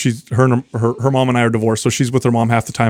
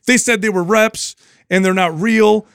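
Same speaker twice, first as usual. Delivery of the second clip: higher-pitched imitation of an upset child; retold upset daughter; 8 semitones higher than usual. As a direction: lightly voice a hurt daughter explaining. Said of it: "kinda crying".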